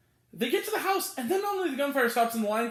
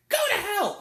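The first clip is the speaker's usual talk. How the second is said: retold angry retort; 9 semitones higher than usual. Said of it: "and she goes".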